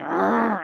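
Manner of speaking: short rolling snarl in retelling; mock growl. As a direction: growl like a riled animal. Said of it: "automatically, my back goes up, and I'm like".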